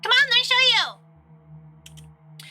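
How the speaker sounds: very high, stretched-out invitation; high-pitched hammed-up eagerness; eager coaxing. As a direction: coax them along in a high voice. Karen eagerly beckons.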